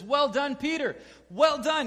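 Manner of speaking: high, loud, beaming well done; rising excited congratulations; excited praise. Retold or imitated. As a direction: cheer him on. Jesus praises Peter.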